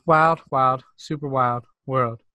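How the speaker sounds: first two words punched, then a slow stretched finish; hyped title call. Acted. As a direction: sing out the show name.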